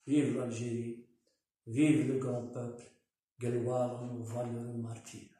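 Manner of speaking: measured oratory with pauses between phrases; formal speech. Real, not acted. Commentator reads a tribute to Algeria's youth and people, formal speech. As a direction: read out a solemn written tribute.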